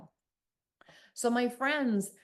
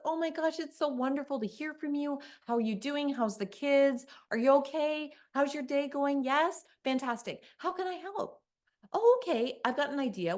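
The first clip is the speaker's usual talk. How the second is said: bubbly, higher phone-helper voice; cheerful helper; 5 semitones higher than usual. Retold or imitated. Claudia greeting a caller at the help desk, bubbly. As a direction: gush over the caller like a dear friend. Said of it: "Claudia says".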